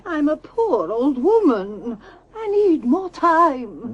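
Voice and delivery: put-on slow, whining old woman; pleading old woman. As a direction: beg for time, drawn out. Pleading with the landlord.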